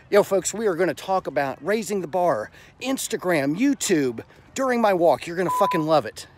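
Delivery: hyped-up vlogger energy; excited. Shown as a demonstration. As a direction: pump it up like a hype host. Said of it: "instead I could be like".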